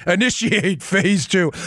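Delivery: slow, even automaton robot voice. Pretend. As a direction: intone it like a machine. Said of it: "automaton robot voice".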